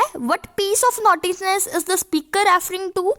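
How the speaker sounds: slow, careful reading of the text line; slow dictation read. Shown as a demonstration. Teacher to students, reading the passage slowly. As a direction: read it out slowly for the class to copy.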